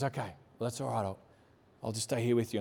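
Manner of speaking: low, soft retold comfort; gently reassuring brother. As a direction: quietly play a brother offering to stay. Brother comforting him, acted out.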